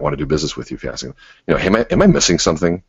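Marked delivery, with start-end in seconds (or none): 1.6-2.8 entitled tone. Shown as a demonstration. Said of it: "Now that sounds entitled".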